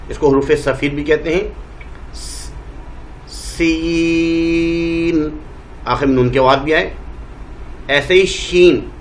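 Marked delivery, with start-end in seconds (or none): 3.3-5.4 سین with a long whistling s and a held vowel; hissing drawn-out letter. Shown as a demonstration. Teacher demonstrating the whistling letter to students, long hiss. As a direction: let سین hiss then stretch it. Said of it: "تو سیٹی کی آواز آئے".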